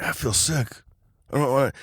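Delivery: high-pitched mock complaint; queasy protest. Brother begs off repeating after dad, queasy protest.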